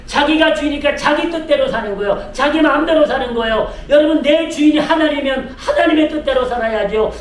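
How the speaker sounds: rising, driving sermon delivery; forceful preaching. Real, not acted. Pastor telling the congregation to live by God's will, forceful preaching. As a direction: drive it toward a ringing declaration of faith.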